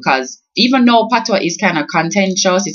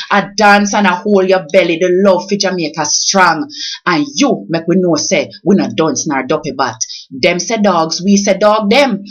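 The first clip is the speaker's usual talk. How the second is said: rhythmic Jamaican patois poem, read aloud with feeling; poem recital. Acted. Vlogger reading her own tribute poem to Miss Lou, recited with feeling. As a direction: recite it as a heartfelt birthday tribute. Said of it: "I wrote it and I'm going to read it".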